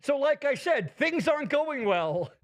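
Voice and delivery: laughing through the words. Real, not acted. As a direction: laugh as you talk. Laughing at burn.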